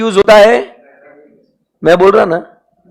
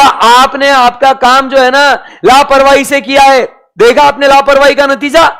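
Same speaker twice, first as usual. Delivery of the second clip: higher-pitched mock scolding; acted accusation; 5 semitones higher than usual. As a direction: take the auditor to task, pitched up. Acting out an accuser scolding the auditor. (लापरवाही पर डाँटते हुए, ऊँचे सुर में)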